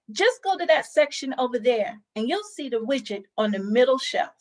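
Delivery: curt, impatient instruction; annoyed. Shown as a demonstration. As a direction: sound fed up with the customer. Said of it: "it sounds annoyed".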